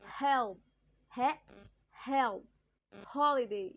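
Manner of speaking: "help", "he", "help", "holiday" said loudly, one at a time with a clear H; example words for H. Shown as a demonstration. Teacher showing students the H sound, loud, separate example words. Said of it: "When I say".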